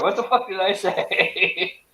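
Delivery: slow, drawn-out mock exasperation. Real, not acted. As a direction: drag it out, baffled. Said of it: "I see her giggling over there".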